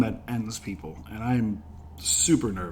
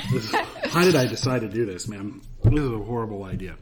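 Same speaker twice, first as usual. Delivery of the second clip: laughing through the burn; fighting the heat of the sauce; mouth burning from spicy food; 3 semitones lower than usual. Real, not acted. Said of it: "My mouth is on fire".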